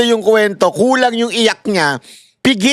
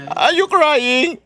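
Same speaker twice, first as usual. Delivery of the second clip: higher, slow, drawn-out mimicry; mocking imitation; 4 semitones higher, slower than usual. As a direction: mimic the questioner, stretching it out slowly. Mimics the questioner in the clip. (mabagal at nang-aasar na panggagaya)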